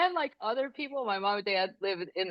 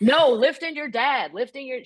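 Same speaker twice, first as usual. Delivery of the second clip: emphatic, higher-pitched mom retort; exasperated mom; 4 semitones higher, 3 dB louder than usual. Retold or imitated. Mother answering her daughter's joke, exasperated. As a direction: stretch the NO, then explain it indignantly.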